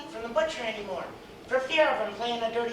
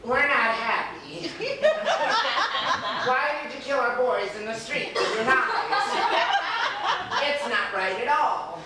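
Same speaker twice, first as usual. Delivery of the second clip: mock indignant through laughter; grumbling while laughing; laughing complaint; slower than usual. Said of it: "they would have said to him".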